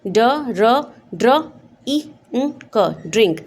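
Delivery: ड, र, ड्र, then ई, उ, क, blended into ड्रिंक; sounding out drink. Shown as a demonstration. Teacher demonstrating the short vowel. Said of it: "इसका phonic sound पढ़ोगे आप".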